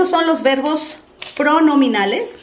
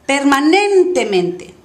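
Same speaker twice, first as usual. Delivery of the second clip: 'permanentemente' slow, NEN stretched long; exaggerated stress; 3 semitones higher, 4 dB louder, slower than usual. Shown as a demonstration. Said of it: "voy a exagerar primero". ('permanentemente' lento, con NEN exagerado)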